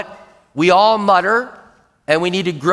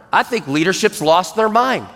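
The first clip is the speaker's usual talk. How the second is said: higher-pitched, insistent acted fault-finding; murmuring complaint; 4 semitones higher than usual. Shown as a demonstration. Complainer building a coalition against leadership, murmuring.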